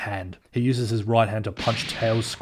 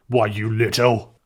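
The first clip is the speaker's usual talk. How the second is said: slow, louder growled retort; angry; 6 dB louder than usual. Acted. Captain Whisker after the kick, angry. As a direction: spit it out in rage. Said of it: "says angrily".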